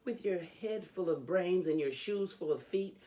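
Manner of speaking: lively, sing-song storybook reading; reading to children. A narrator's reading. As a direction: read it like a bedtime book for kids. Reads Dr. Seuss to children.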